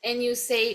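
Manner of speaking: "And you say" joined, N running into "you"; linked words. Shown as a demonstration. Teacher points out the joining, linked words. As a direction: run "And you say" together. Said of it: "viu como ele junta aqui".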